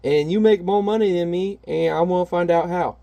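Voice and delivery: lightly hammed comic book bad guy; villain voice. Reading the villain's line aloud in a high sneer. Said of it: "He's like".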